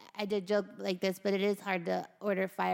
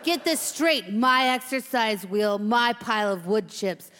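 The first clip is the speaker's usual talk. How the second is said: slow, menacing cage veteran; tough hamster; 5 dB louder, slower than usual. Acted. Veteran hamster warns the new cage mate, tough and threatening. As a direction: lay down the law, spacing out the warnings.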